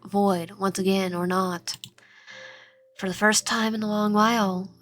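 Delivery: lightly voiced worried confession; subdued, understated fear of being abandoned; Noah. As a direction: admit being lost, with only a touch of fear. Plays scared Noah confessing.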